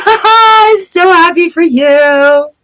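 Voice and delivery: high and slow, through a laugh; laughing happily. Real, not acted.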